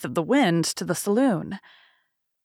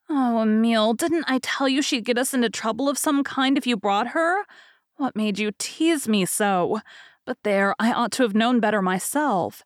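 exasperated sister; 4 semitones higher than usual. Acted.

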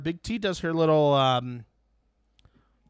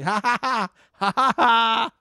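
high mock laughter in even ha-has; clear fake laugh; 8 semitones higher, 5 dB louder than usual. Imitating a castmate who wasn't even trying, fake laugh. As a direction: make no effort to sound amused. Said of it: "it was a clear fake laugh".

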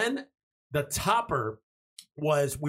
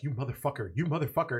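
lower, softer muttered curse; 5 semitones lower, 3 dB quieter, faster than usual. Retold or imitated. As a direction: grumble it under the breath at him. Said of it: "She's like".

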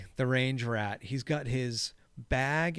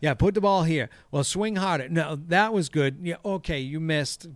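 imitating a golf instructor, pitched up; higher, lightly mocked instructions to a beginner; coaching boyfriend; 4 semitones higher, 5 dB louder than usual. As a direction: play an eager amateur coach giving tips. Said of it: "he is teaching her".

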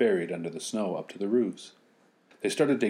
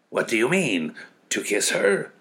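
higher mocking question; ironic; 5 semitones higher, 5 dB louder than usual. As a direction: ask with ironic scorn. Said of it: "a whirlwind asked ironically".

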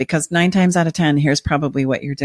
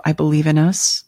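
nighttime DJ voice. Shown as a demonstration. Partner calmly inviting spouse to plan next steps, calm radio-host voice. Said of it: "that's her nighttime D J voice".

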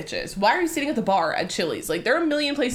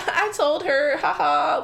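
mock gloating; 6 semitones higher, slower than usual. Mocking the giggling girl, retold.

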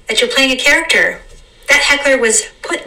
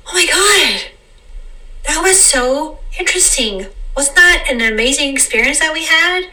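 higher, wide-eyed wonder; amazed delight; 6 semitones higher than usual. Pretend. Souls reuniting after the journey, amazed and delighted. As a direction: gush like meeting an old friend.

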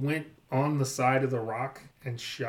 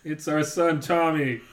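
louder; 4 dB louder than usual. Acted. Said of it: "Can you say it louder then".

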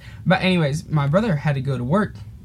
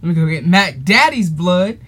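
mosquito voice; 4 dB louder than usual. Retold or imitated. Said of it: "So all the bugs were like".

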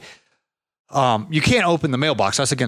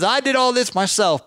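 higher voice showing off his yard; proud old man; 10 semitones higher than usual. Retold or imitated.

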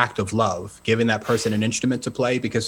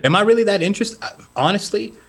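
surprised disbelief; 9 semitones higher, faster than usual. Real, not acted. Surprised at chat's interest.

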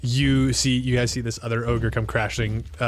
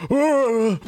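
higher, slow ogre voice, baffled; puzzled ogre; 13 semitones higher, 4 dB louder, much slower than usual. Acted. Ogre Bertram spotting a tiny hidden player, baffled. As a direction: peer down at a tiny thing. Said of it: "Bertram looks down and goes".

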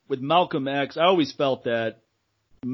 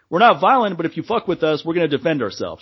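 quoting Malcolm X; 4 semitones higher, faster than usual. Retold or imitated. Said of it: "and he said".

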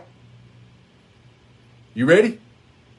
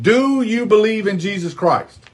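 slow mock Spanish; slower than usual. Shown as a demonstration. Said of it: "Let me say it in Spanish".

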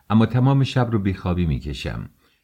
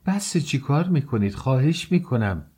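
horrified cry; 6 semitones higher than usual. A narrator's reading. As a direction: plead as if appalled. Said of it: "به سرحد وحشت رسیده بود فریاد زد".

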